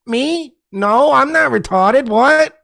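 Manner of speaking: high, flustered guilty denial; deer in headlights. Retold or imitated. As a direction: play caught and panicking. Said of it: "deer in headlight".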